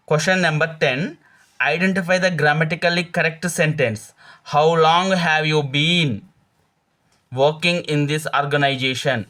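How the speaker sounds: slow, careful reading of the exam question; deliberate classroom dictation pace; slow quiz reading. Acted. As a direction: read each word out slowly like a teacher dictating. Reads the quiz question aloud.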